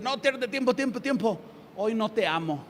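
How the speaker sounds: mock God calling time-out, dry and sarcastic; tongue-in-cheek, as if God bored of you. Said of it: "estoy hablando sarcásticamente". (sarcasmo burlón, como si Dios dijera basta)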